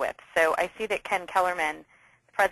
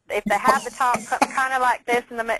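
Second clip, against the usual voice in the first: a half-hearted Midwestern accent, a bit higher and louder; 5 semitones higher, 3 dB louder than usual. Shown as a demonstration. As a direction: try a Midwestern accent and fumble it. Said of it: "I'm not even doing it very well".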